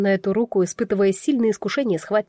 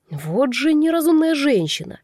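muttered through teeth; 6 semitones higher than usual. A narrator's reading. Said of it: "процедил сзади голос Криса".

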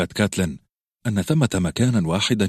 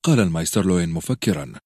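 ordinary delivery, nothing marked

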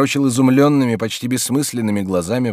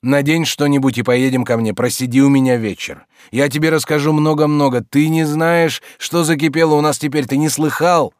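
lightly voiced friend pressing, a bit louder; lively coaxing, louder; Stolz, eager urging; 5 semitones higher, 6 dB louder than usual. A narrator's reading. (слегка озвученный оживлённый Штольц)

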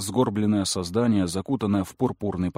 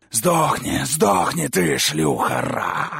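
louder, higher hissed demon curse; demonic hiss; 5 semitones higher, 4 dB louder, much slower than usual. Acted. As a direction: spit the words with hate. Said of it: "прошипел демон".

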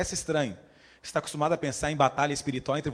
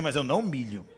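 lower, laughing stubborn refusal; stubborn defiance; 3 semitones lower than usual. Pretend. The man in hell refusing God, laughing stubbornly. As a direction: still refusing, half laughing.

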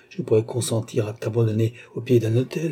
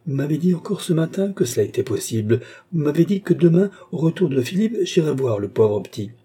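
higher-pitched, insistent reproach; heated protest; 5 semitones higher than usual. Acted. Mother reproaches doctor for his promise, heated protest.

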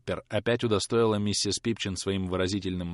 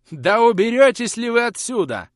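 очень высокий, громкий визгливый крик; визжи как взбешённая старуха; крик разъярённой старухи; 10 dB louder than usual. A narrator's reading. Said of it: "кричала разъярённая старуха". (разъярённая старуха кричит на служанку)

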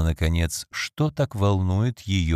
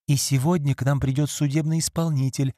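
ordinary delivery

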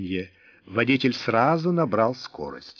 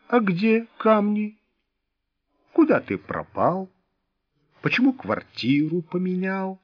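higher, pressing questions; interrogating; 8 semitones higher than usual. A narrator's reading. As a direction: grill him, rising anger. Serge interrogates Wolf, pressing.

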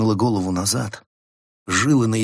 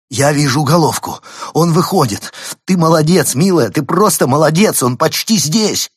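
excited encouragement; 8 semitones higher, 9 dB louder than usual. Acted. Husband cheers wife at birth.

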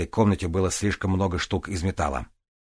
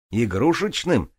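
high, slow indignant echo; outraged repeat; 5 semitones higher, 3 dB louder, slower than usual. Acted.

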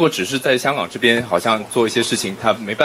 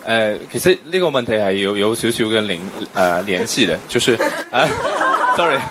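halting Cantonese with a Mandarin accent. Real, not acted. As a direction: Mandarin speaker struggling through Cantonese. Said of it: "我很，很欣賞你用廣東話講".

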